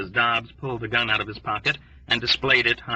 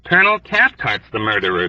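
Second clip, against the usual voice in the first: hoarse complaint; 5 dB louder than usual. Acted. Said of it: "Dobbs complained hoarsely".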